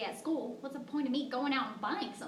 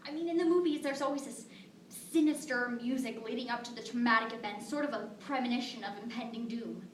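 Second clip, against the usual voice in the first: hushed, heavy grief; tragic heroine sorrow. Acted. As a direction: let the words sink, barely voiced. Telling of daughter's death.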